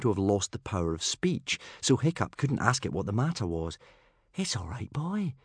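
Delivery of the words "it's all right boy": soft, soothing lilt. A narrator's reading. Hiccup to his shivering dragon, soothing. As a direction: soothe a nervous animal gently. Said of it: "said Hiccup soothingly".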